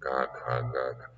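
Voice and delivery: Ka, ka, ga, ga clipped syllables from the throat; recited consonants. Shown as a demonstration. Teacher reciting the first Sanskrit consonants, crisp. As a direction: tap out each guttural syllable crisply. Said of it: "nous avons les consonnes".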